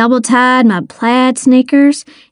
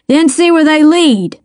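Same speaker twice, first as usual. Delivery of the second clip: raised-pitch called order; mild shout; 5 semitones higher than usual. A narrator's reading. Detective sending a deputy after footprints, mildly shouted. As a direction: send them off with a called command. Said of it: "Star shouted".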